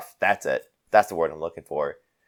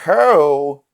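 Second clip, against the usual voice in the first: loud, high bellow, broken into chunks; shouted challenge; 7 semitones higher, 7 dB louder, much slower than usual. Acted. Drinker sauntering up the table at a gnoll, shouted challenge. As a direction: holler each piece as a drunken demand.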